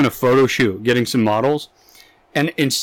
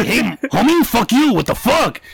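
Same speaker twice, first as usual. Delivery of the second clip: mock gangster; 8 semitones higher than usual. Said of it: "the other guy's like".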